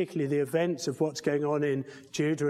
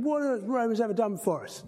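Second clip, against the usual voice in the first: a lightly voiced exasperated John Cleese, faster; 6 semitones higher, faster than usual. Preacher retelling the sketch, mock exasperated Cleese. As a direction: rattle it off as an impatient Cleese. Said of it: "we have John Cleese going".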